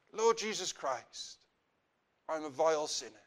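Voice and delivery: subdued, contrite sinner's prayer; penitent prayer. Acted. Preacher models a sinner's prayer to the Lord, penitent. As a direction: confess humbly to God in measured phrases.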